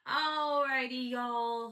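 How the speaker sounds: rally the listeners to close; upbeat sign-off. Real, not acted. Host wrapping up the solo episode, upbeat and loud.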